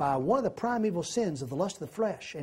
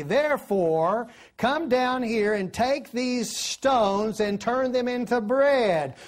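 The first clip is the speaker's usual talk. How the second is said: tempting devil; 4 semitones higher, slower than usual. Acted. The devil urging hungry Jesus to turn stones into bread, coaxing and slow. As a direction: lean in and lure him like the tempter, dragging the words.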